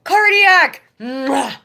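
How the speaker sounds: high, loud happy call-out of a viewer's name; excited greeting. Real, not acted. Streamer greeting a viewer arriving in chat, high and loud. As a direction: greet the new arrival with a big cheer.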